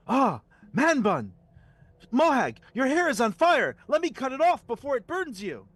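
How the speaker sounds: high, loud, urgent yelling; shrill-free frantic loud warning; alarmed shout. Acted. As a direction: panic about the burning hair. Character shouts about hair fire.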